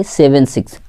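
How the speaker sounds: सेवन सिक्स as two separate digits; digit-by-digit reading. Shown as a demonstration. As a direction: give सेवन and सिक्स one at a time. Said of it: "एक एक अंक को पढ़ते हैं". (एक-एक अंक अलग पढ़ते हुए)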